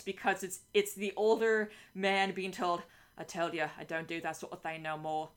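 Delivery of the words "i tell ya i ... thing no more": put-on gruff Cockney old man; lightly put-on Cockney; Cockney accent. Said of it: "You, you just went back into the Stede Bonnet voice".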